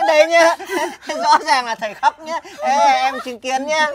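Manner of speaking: giggly and triumphant; gleeful gloating. Acted. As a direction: crow through giggles at winning the bet. Gloating that the teacher cried.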